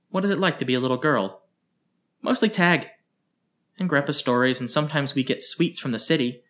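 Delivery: put-on high, quick childlike chatter; lightly voiced eager child; curious girl rattling off answers; little girl.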